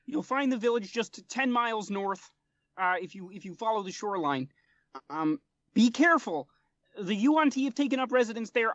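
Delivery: high, earnest little frog-man voice, pitched well up; a small amphibian diplomat pleading politely; frog folk interpreter. Acted.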